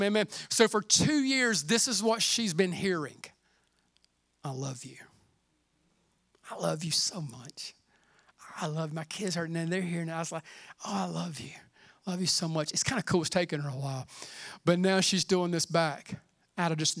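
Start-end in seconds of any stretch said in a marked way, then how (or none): 4.4-9.4 put-on soft and hushed, much lower, like to a baby; tender grandpa voice. Grandfather telling grandbaby he loves her, hushed and tender. 10.8-12.7 put-on soft and hushed, much lower, like to a baby; tender grandpa voice. Grandfather telling grandbaby he loves her, hushed and tender.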